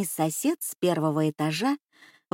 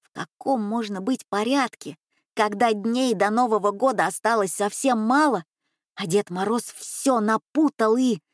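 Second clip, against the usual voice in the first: plain reading voice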